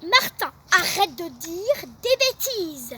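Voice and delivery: cross scolding. Acted. Teacher scolding Martin, cross and slow. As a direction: scold the boy firmly. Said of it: "Elle se fâche".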